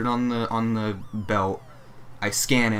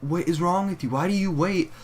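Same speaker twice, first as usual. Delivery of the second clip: exasperated scolding; 8 semitones higher than usual. Retold or imitated. Exasperated rant at slow customers.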